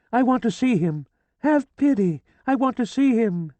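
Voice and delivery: high, loud shrieks for help; desperate screaming. A narrator's reading. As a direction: fight the gendarmes and scream. Dragged away screaming by gendarmes.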